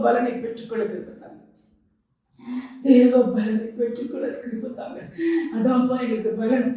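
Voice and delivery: earnest pleading prayer to God; fervent prayer. Acted. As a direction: pray aloud for the women. Leads a prayer. (உருக்கமான ஜெபம்)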